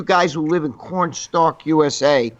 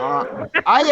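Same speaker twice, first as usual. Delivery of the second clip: helium voice. Real, not acted. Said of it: "sometimes I talk like I'm on helium".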